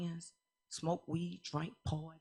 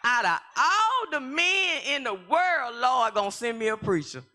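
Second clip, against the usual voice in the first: mock disbelief; 7 semitones higher, 6 dB louder than usual. Real, not acted. Exclaiming disbelief at God.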